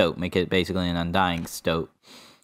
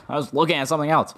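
laughing; 7 semitones higher, much faster than usual. Real, not acted. Laughs at own mistake.

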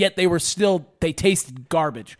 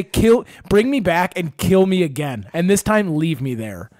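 voicing the fish; 4 dB louder than usual. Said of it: "it would say".

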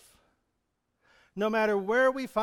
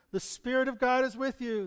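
promise called out; 5 semitones higher than usual. Shown as a demonstration. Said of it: "echo his promises".

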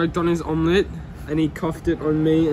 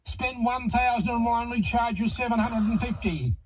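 radio ad voice; 4 semitones higher than usual. Retold or imitated. Mimics radio ad.

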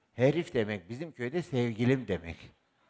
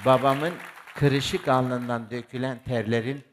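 slow, loud and swelling with feeling; a slow rising cry of gratitude; loud emotional tribute; 6 dB louder, slower than usual. Real, not acted. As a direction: drag each word out loud as if moved to tears. Orator's emotional tribute to father.

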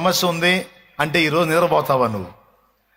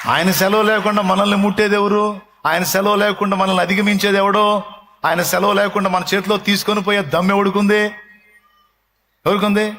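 louder, higher challenging questions; rhetorical preaching; 6 semitones higher, 4 dB louder than usual. Acted. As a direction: challenge the congregation.

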